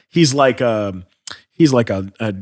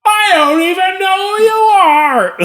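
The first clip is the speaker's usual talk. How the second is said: laughing through the quote; 6 dB louder than usual. Retold or imitated. Shatner's reply voiced mid-laugh.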